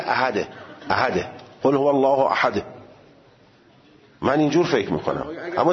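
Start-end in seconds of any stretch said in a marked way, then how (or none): 0.0-2.6 احده with a bounced final د; qalqala. Shown as a demonstration. Teacher demonstrating qalqala on احده. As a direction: let the د of احده echo. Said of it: "قلقله اینه که میگه".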